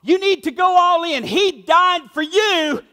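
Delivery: urging them to go all in; mock insistent plea; pushy pleading. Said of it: "would contend".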